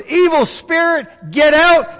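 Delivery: preacher voicing Jesus casting out a spirit, commanding; commanding rebuke. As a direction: order the spirit out.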